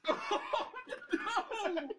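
disgusted by smell. Real, not acted. Opening stinking can, disgusted.

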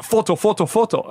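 high-pitched mimicry of an insistent fan; mock pushy pleading; pestering fan. Same fan pestering him again.

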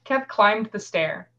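measured audiobook-style reading; story narration. A narrator's reading. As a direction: read the tale aloud, pausing between sentences. Reads a novel excerpt aloud.

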